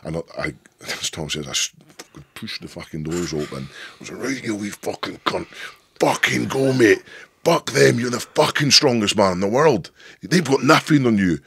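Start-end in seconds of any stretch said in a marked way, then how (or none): 4.2-11.4 much higher, much louder Scottish roar of encouragement; hyped-up shouting. Retold or imitated. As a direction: bellow at your brother to psych him up. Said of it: "but my voice is quite deep".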